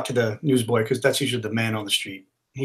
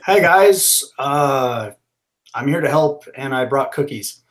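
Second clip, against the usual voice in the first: friendly greeting; slower than usual. Acted. Superhero greeting wary police with cookies, friendly. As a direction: ease in with an offer of help.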